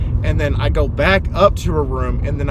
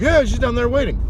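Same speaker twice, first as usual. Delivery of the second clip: lightly voiced old man, pitched up; a hint of an insistent old fellow, higher; imitated older gentleman; 10 semitones higher than usual. Older gentleman telling driver she's waiting, lightly imitated.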